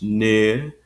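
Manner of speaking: "near" as one long vowel, no R; extended I. Shown as a demonstration. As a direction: stretch the vowel of "near", drop the R. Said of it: "an extended I sound".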